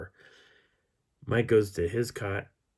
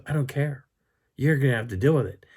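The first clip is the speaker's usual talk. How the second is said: raised, louder retold snap; mock-stubborn, higher-pitched insistence; acted defiance; 6 semitones higher, 7 dB louder, faster than usual. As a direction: shut down the objection, imitating her. Acting her refusal in quarrel.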